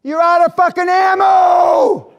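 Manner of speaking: high, slow, full-throated yell; Barry yelling. Retold or imitated. Guide screaming at the hunter as the buffalo charges. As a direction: scream a desperate warning over the charge. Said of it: "Barry was yelling at me".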